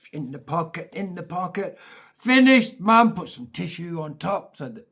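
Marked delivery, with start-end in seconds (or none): 2.2-3.1 put-on high, loud little boy fibbing to mum; young son telling mum he has finished dinner, high and loud; little kid voice. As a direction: play the cheeky seven-year-old, pitched up.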